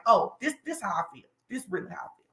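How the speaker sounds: muttered gangster attitude; a hint of street tough; low, soft mock gangster voice. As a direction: drop low and quiet like a tough guy. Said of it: "You be like".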